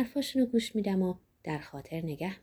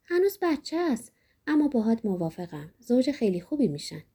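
a hint of the mother, lifted higher on the first words; mother's voice; 4 semitones higher than usual. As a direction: lightly voice the mother joining in.

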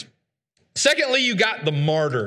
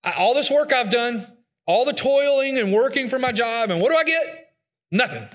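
rising higher on what do I get, then a flat drop on Nothing; mock cynic lament; 4 semitones higher than usual. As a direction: sell the futility, top out the question. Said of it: "He says, you know".

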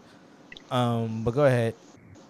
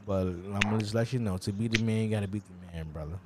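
Ric Flair promo. Retold or imitated. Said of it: "He said".

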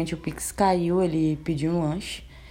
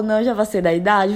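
loud refusal; 2 semitones higher, 5 dB louder than usual. Retold or imitated. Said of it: "Falei desse jeito".

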